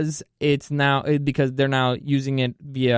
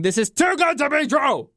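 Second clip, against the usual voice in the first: incredulous; 10 semitones higher than usual. Retold or imitated. Repeating to himself.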